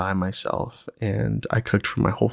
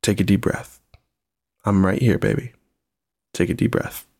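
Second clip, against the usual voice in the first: soothing parent, unhurried with pauses; acted-out calming words to a little one; calm reassurance. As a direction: gently talk an upset child down. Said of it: "I just say".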